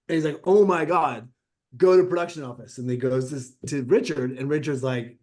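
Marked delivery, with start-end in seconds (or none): 0.4-2.8 excited agent. Retold or imitated. Agent's excited quote in retold story.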